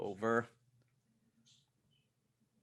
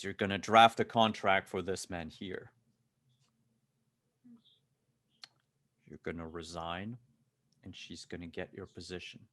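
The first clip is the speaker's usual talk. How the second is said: cold threat; 4 dB louder than usual. Acted. Bodyguard draws pistol, gives orders.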